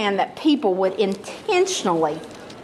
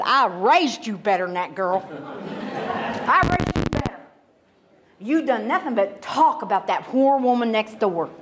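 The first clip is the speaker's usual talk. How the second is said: scolding mother. Retold or imitated. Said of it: "and she said".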